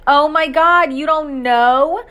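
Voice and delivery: loud, high, slow disbelieving squeal; amazed excitement. A narrator's reading. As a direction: she can't believe he hasn't heard. Sister amazed he doesn't know.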